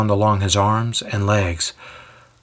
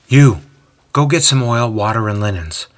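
brisk order; 3 dB louder than usual. Acted. Wife ordering son about.

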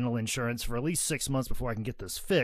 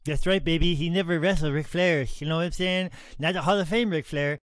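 Ric Flair impression.

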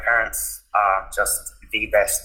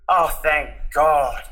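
slow, higher sigh of relief in words; relieved mum; 5 semitones higher, slower than usual. Retold or imitated. Mum answering her son's coming out, relieved. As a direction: voice a relieved mother, drawn out.

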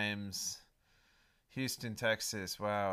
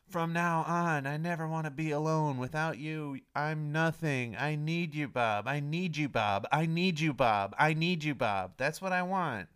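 mock desperate plea; 5 semitones higher than usual. Desperate escalating plea to dream guy.

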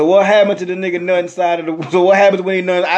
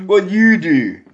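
clipped Baltimore accent; slower than usual. Shown as a demonstration. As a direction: drop the words, Baltimore style. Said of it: "I'ma speak to you in my Baltimore accent".

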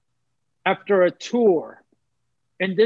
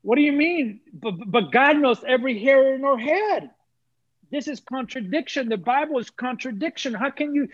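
higher, bewildered protest; retelling his shock at the verse, higher and bewildered; shocked disbelief; 5 semitones higher than usual. Retold or imitated. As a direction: question it as if the ground just moved. Shocked reaction to scripture.

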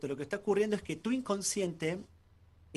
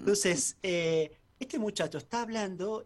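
yawning; 3 semitones higher than usual. Real, not acted. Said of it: "¿y por qué estoy bostezando?".

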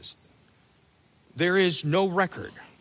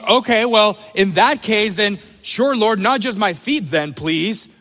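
eager Peter; 3 semitones higher, 6 dB louder than usual. Retold or imitated. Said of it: "so he's like".

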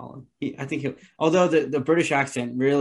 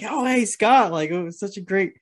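put-on gushing girl greeting; 6 semitones higher than usual. Girl greets hungover Scott.

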